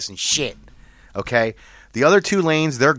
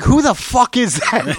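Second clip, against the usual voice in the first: mock angry yell; 10 semitones higher, 4 dB louder than usual. Driver behind yells question.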